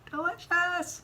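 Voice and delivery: slow build, then delicious jumps high; delighted praise. Real, not acted. Telling friends about her dinner, delighted high praise. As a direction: savor the word delicious with a high lift. Savoring a restaurant meal.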